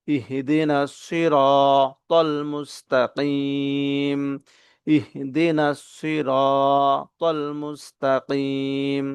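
very slow, measured recitation with long vowels; Quran recitation. Shown as a demonstration. Teacher reciting the whole verse for learners to follow, slow and drawn out. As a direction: recite slowly, holding the last syllable.

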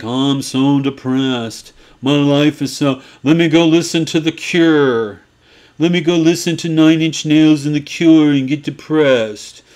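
hammed-up moping teenager; mopey goth. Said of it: "They're like".

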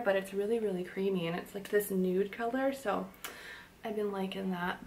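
talking while lining the lips; while doing lip liner. Real, not acted. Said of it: "realized I can't talk and do lip liner".

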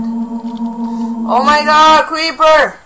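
very high, loud, drawn-out shout; horrified shout. Real, not acted. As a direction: stretch it out in real horror. Creeper explodes in game.

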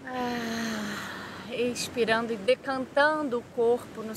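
calm guided-meditation voice with long pauses. Real, not acted. Yoga teacher guiding listeners through body relaxation, calm meditation voice. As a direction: lead them through breathing and relaxation, unhurried.

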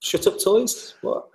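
high-pitched questioning echo, acted; puzzled surprise. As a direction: echo it back in mock disbelief, pitch leaping up. Acts out own puzzled reply.

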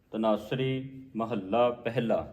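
ਪਹਿਲਾ said as a full, clear word; correct pronunciation. Shown as a demonstration. Teacher showing the congregation how to read ਪਹਿਲਾ, carefully sounded. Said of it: "ਉਚਾਰਨ ਕਰਨਾ ਹੈ".

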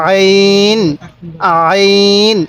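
আইন with light pressure in the throat, held long; throat-pressed ayn. Shown as a demonstration. Teacher shows how to read it, throaty আইন. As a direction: squeeze the start of আইন lightly in the throat, then stretch it. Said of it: "গলার মধ্যে হালকা চাপ".

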